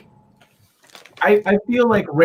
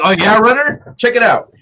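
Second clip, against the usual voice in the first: mocking impression; 5 semitones higher, 5 dB louder than usual. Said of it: "You're like".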